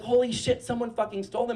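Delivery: high, loud burst of alarm; a lightly voiced panicked housemate; shocked roommate. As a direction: gasp it as the truth lands. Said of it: "And she's like".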